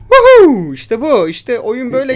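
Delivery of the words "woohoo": loud, high "woohoo"; swooping cheer at full volume; triumphant whoop. Real, not acted. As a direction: whoop in celebration. Celebrating in game.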